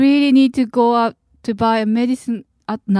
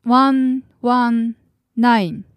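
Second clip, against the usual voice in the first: over enunciating; much slower than usual. Shown as a demonstration. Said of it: "slowly, please".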